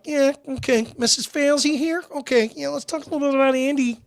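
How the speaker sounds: high-pitched sing-song put-on voice; imitated patronizing talk. Imitating how she talks to the patient, high put-on patronizing voice. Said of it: "He didn't talk to her like that".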